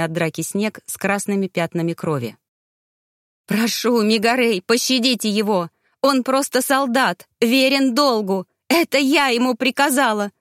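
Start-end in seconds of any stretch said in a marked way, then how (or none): 3.5-10.3 pleading. Acted. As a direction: beg him to spare his life. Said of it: "взмолилась Равена". (Равена на коленях умоляет Мегарея пощадить Кейлуса)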